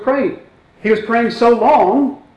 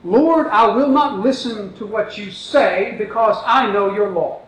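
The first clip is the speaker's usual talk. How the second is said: slow rephrase; 4 dB quieter than usual. Retold or imitated. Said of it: "Let me rephrase that".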